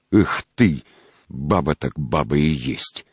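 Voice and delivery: slow scornful sigh; contemptuous. Acted. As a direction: sneer it out with disdain. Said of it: "с таким глубоким презрением".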